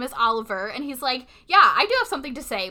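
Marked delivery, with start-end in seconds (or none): 1.5-2.7 2 louder and fast, stepping forward; 3 blurt it out boldly; 4 kid standing up to the coach, bold and fast; 1 bold speaking up. Retold or imitated.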